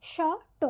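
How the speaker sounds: শ ট as two detached sounds, shô, ṭô; separate letters. Shown as a demonstration. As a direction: pause between শ and ট, each with an open ô. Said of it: "যেভাবে আমরা উচ্চারণ করি".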